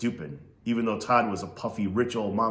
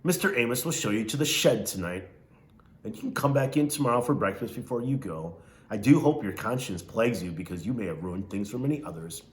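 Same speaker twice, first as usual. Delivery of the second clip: Missus Amos. Acted. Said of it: "She talked like this".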